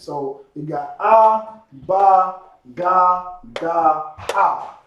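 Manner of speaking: slow start, each sound set apart; letter sounds. Shown as a demonstration. Teacher reviewing alphabet sounds with class, slow. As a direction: say "Ah, Ba, Ga, Da, Ha" one by one. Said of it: "we get into the basics".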